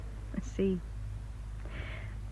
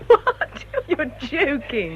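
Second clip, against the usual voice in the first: amused disbelief; 5 semitones higher, much slower than usual. Acted. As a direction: burst out in amused astonishment. Amazed at rumor of romance.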